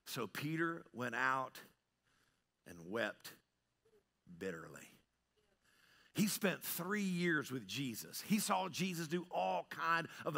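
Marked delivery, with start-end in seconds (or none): 0.1-4.9 hushed and solemn. A narrator's reading. Preacher reading how Peter went out weeping, hushed. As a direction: let it sink to a grave hush.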